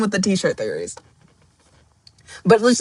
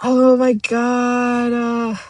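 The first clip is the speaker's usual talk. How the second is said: overwhelmed; 2 semitones higher, much slower than usual. Real, not acted. Overwhelmed by story.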